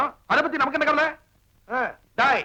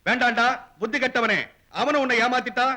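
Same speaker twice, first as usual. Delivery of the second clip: measured, slightly lowered inner voice; scolding conscience; 3 semitones lower than usual. Acted. His conscience telling him to ask the boy, a low measured scolding. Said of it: "மொத்தம் எத்தனை மனசாட்சி".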